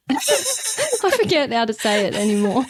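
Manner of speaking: talking through giggles; real breaking up mid-sentence; helpless laughing. Real, not acted. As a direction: laugh your way through the confusion. Helpless giggles over a word.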